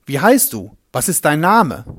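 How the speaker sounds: calm, commanding exorcist; sure and firm. Acted. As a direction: Jeschua driving out the spirit, sure and firm. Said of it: "sicher und bestimmt".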